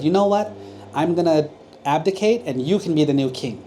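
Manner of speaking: delighted king. Acted. Happy king gives up throne.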